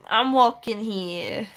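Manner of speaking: put-on New Yorker accent. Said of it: "New Yorker accent".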